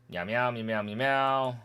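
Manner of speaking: meowing gibberish in place of the dialogue; mock cat-people chatter. Skipping cat people's dialogue, mock meowing. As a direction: play the cat folk with light meows. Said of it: "Now we have the cat people".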